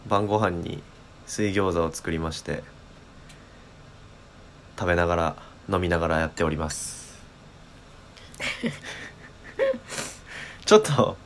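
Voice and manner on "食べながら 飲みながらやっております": talking with food in mouth; chewing while talking. Real, not acted. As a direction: speak between bites of dumplings.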